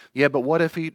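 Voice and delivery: put-on the fretful child cutting in; a child pleading what-if; worried inner child. Anxious inner child objecting.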